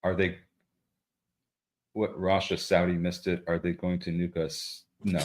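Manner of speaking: deadpan, measured read, softly spoken; very deliberate. Real, not acted. Co-host reading a viewer's alarmed comment aloud, very deliberate. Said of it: "very deliberate, uh, tone".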